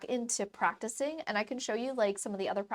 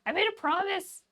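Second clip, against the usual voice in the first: higher silly voice, a bit louder; 5 semitones higher, 4 dB louder than usual. Acted. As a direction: keep the goofy squeaky voice going. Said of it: "do it in a silly voice".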